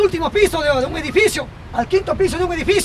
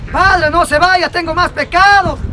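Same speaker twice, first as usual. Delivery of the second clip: raised, drawn-out acted call; calling after someone; 3 semitones higher, 4 dB louder, slower than usual. Lad to priest running from confession, calling out. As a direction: call out to stop the fleeing priest. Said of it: "El muchacho le llama".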